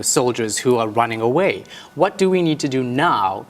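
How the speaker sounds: crisp, measured news-anchor delivery; news anchor read. Acted. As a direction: read it like a polished evening bulletin. Reporter reading a news report.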